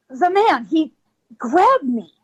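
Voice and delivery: retold breathless report, broken by gulps; out of breath. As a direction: force it out in short bursts. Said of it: "I'm out of breath".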